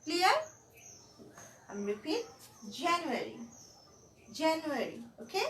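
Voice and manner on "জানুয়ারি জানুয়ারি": জানুয়ারি with a tiny break after জা; stress on জানুয়ারি. Shown as a demonstration. Teacher repeats জানুয়ারি, marking the stress. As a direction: lean on জা in জানুয়ারি. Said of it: "একটু থেমে তারপর যাচ্ছি".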